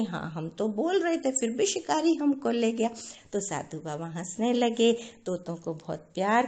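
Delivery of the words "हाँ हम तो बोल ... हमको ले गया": mildly naive innocent voice; innocently. Acted. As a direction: answer with innocent surprise. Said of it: "बहुत भोलेपन से".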